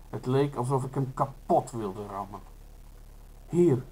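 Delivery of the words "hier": called out. A narrator's reading. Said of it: "riep ik".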